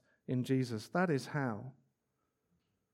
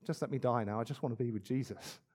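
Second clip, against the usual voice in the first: soft, hushed, a little quicker at the end; quiet longing plea; 6 semitones lower, 7 dB quieter, faster than usual. Retold or imitated. Dying criminal softly begs to be taken to Jesus, hushed. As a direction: sigh it out like a dying man ready to go. Criminal's imagined wish to die.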